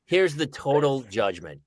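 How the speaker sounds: measured, tongue-in-cheek scolding; mock judgment. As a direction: hand down a ruling, deadpan. Mock verdict delivered to friend.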